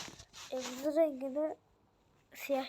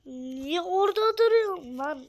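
loud, higher, annoyed yell; annoyed shout; 4 semitones higher, 7 dB louder than usual. Real, not acted. Gamer yells at a player standing in the way, annoyed. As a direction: bark at him to move. Yelling at game character.

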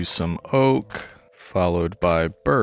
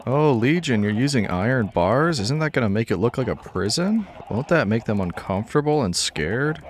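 higher, lilting mock objection; imitated worried viewer; 3 semitones higher than usual. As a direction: mimic a fussing commenter with swooping questions. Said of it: "I know what you're thinking".

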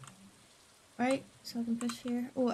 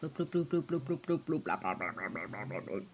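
gibberish sinking lower and softer; babbling down into a low mumble; fading gibberish; 10 dB quieter than usual. Pretend. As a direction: let the nonsense sink away.

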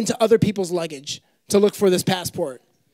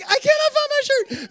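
frustrated exclaim. Retold or imitated.

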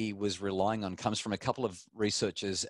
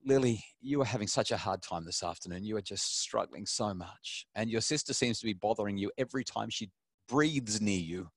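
empathetic parent voice. Shown as a demonstration. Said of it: "And I might say".

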